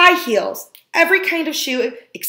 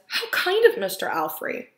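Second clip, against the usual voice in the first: lightly raised, soft grandma voice; a gentle old grandma, a little higher; Grandma's voice; 9 semitones higher, 5 dB quieter than usual. A narrator's reading.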